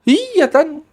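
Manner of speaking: high-pitched opening, easing back down; imitated cocky nephew. Nephew insisting to his doubting aunt, imitated. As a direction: mimic him brushing off his aunt. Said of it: "Sambil gitu bahasanya, gelagatnya juga kayak gitu".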